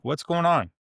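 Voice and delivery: retold dad demanding an answer, mildly fed up; frustrated. Dad questioning his girls' behaviour, frustrated.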